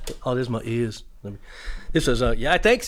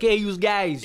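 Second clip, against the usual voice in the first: mock American accent; teasing American-accent imitation; American accent slip; 3 semitones higher, slower than usual. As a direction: lightly put on an American accent. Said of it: "His true accent might come out".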